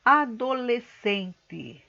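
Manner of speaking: "adolescente" slow but joined, every syllable distinct; deliberate enunciation. Shown as a demonstration. Teacher introducing the word to pupils, "adolescente" slowly and distinctly.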